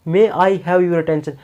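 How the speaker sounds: slow, drawn-out announcement; announcer voice. Shown as a demonstration. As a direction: stretch each word like a station call. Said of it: "ऐसे बोलते हैं ना". (धीमी announcement वाली आवाज़)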